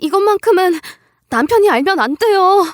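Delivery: high-pitched, urgent pleading with gasps between phrases; desperate pleading. Acted. Boss's wife begs to keep the video from her husband, pleading. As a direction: beg frantically, pitched well up. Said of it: "유에스비를 달라고 사정하는".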